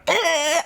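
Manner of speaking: a high clicking "Eh" made on the tongue; tongue click sound. Retold or imitated. Mentor clicking his tongue while tattooing, mock click. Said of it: "on his tongue".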